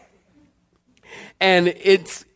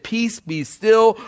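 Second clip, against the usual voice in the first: Jesus commanding; 3 semitones higher, slower than usual. Acted. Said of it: "Jesus said".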